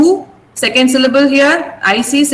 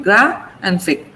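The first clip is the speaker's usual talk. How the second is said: gra and fic slowly separated; syllable by syllable; 4 semitones lower, slower than usual. Shown as a demonstration. Teacher shows two syllables in graphic, split apart. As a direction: break graphic into two slow parts. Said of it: "only two syllables in graphic".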